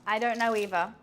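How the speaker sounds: light, teasing reply; sassy shrug to a stranger; breezy comeback. Retold or imitated. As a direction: shrug it off sweetly. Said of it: "reply is always the same".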